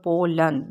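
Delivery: पोलन parted as "po... lan"; two separate syllables. Shown as a demonstration. Teacher counting syllables, पोलन broken into two beats. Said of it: "ये दो इसमें syllable हैं".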